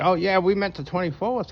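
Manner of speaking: imitating a pre-tribber, high and breezy; mocking pre-tribber voice. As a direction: chirp the new date like nothing happened. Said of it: "They're like".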